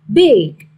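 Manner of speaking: "big" said loud and clear; stress demo. Shown as a demonstration. Teacher modelling the word "big" for the class. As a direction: punch "big" as a single strong syllable. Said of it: "straight on the first syllable".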